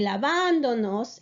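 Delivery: lavándonos with the stress on -VAN-; teacher models lavándonos with the stress on VAN; correct stress. Shown as a demonstration. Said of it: "to keep that same, um, stress".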